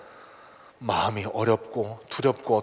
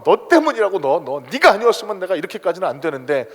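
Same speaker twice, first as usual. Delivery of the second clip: blaming accusation; 4 semitones higher, 4 dB louder than usual. Retold or imitated. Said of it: "원망".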